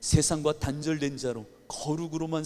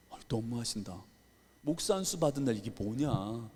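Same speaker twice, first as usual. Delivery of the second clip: tearful; 4 semitones lower, 5 dB quieter than usual. Retold or imitated. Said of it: "눈물이 좀 나는 거예요".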